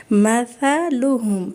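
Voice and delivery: مثلہم slow, soft ث with tongue between teeth, no س sound; soft tha in مثلہم. Shown as a demonstration. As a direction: stretch out مثلہم gently with a soft lisped ث. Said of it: "یہ اتنی نرمی سے سا ادا ہوگا". (مثلہم نرمی سے، ث کی آواز زبان دانتوں کے بیچ)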